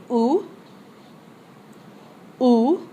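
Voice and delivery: Où said as a clear oo with a lift; model word. Shown as a demonstration. Teacher giving words for students to repeat. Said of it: "S'il vous plaît, répétez".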